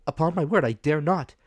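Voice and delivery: put-on a boy too afraid to obey; frightened boy. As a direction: plead like a terrified boy. Jim refuses, scared.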